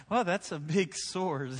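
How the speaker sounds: mock nervous chuckle from parents; a light nervous laugh, half-hearted. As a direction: imitate a parent's uneasy laugh. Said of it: "Nervously kinda laugh like".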